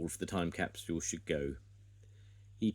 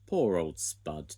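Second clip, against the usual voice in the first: chuckling; 4 dB louder, slower than usual. Acted. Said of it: "chuckled Missus Percival".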